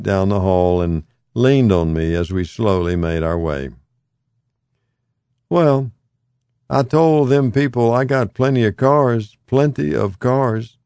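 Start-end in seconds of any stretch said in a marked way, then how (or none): 5.5-10.8 higher, insistent, leaning on each claim; emphatic. A narrator's reading. Old man insisting about his cars, emphatic. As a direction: drive the point home about his cars. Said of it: "He spoke emphatically".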